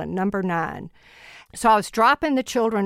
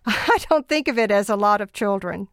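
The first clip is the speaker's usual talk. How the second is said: chuckling through the words; amused, laughing as she answers. Real, not acted. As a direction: say it with a real laugh in the voice.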